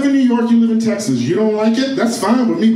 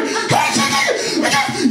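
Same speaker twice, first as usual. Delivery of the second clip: high, drawn-out mock screech; outraged shouting back; much slower than usual. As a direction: stretch out an indignant high protest. Yelling back in family phone quarrel.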